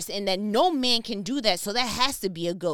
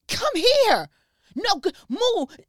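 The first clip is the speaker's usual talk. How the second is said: higher, louder, urgent mock yell at a friend; alarmed shout; 10 semitones higher, 8 dB louder, slower than usual. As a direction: snap him back into the boat, loud and high. Friends stopping Peter leaving boat.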